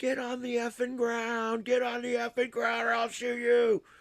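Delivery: put-on very high, shrill, adrenaline-charged scream. Speaker recounts finding someone standing around a corner, retelling a scream. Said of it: "And I start screaming".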